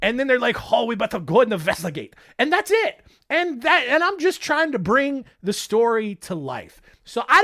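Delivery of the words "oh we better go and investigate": put-on mild Japanese accent. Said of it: "when I'm impersonating a Japanese person".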